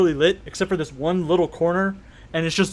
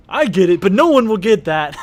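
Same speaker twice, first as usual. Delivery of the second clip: loud, pitched-up laughing protest; amused outburst; 4 semitones higher, 9 dB louder than usual. Real, not acted. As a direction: cry out loudly, tickled by the joke. Game master cracks up at joke.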